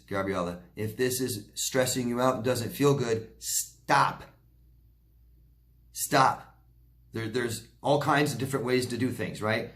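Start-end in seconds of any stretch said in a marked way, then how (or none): 3.4-4.2 breathy hushed stop, almost voiceless. Real, not acted. Repeats stop as advice. 5.9-6.6 firm stop. Real, not acted. Repeats stop as advice.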